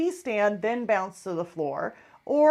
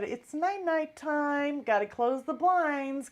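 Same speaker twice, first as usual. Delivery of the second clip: higher, drawn-out night-night call; bedtime singsong; 4 semitones higher, slower than usual. Retold or imitated. Owner telling dog and cat it's bedtime, singsong. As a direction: tuck the pets in with a slow lilt. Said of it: "I said to my dog and my cat".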